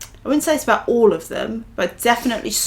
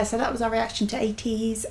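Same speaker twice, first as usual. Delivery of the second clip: soft breathy whisper for the outro; 8 dB quieter than usual. Real, not acted. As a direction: whisper it like a secret. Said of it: "I don't know why I have to whisper".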